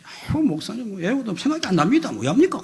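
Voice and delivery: high-pitched, brazen imitation of a deacon; matter-of-fact mock whine; nonchalant excuse. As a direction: mimic someone shrugging off being caught, pitched high. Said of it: "아주 당연한 듯이".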